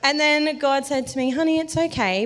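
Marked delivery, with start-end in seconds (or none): 1.3-2.2 high, gentle soothing voice; imitated comforting voice; tender reassurance. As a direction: soothe like a kindly parent. God soothing the panicked speaker.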